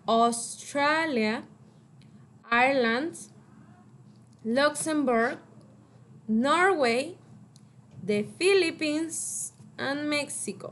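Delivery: slow model word. Shown as a demonstration. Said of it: "repeat, China".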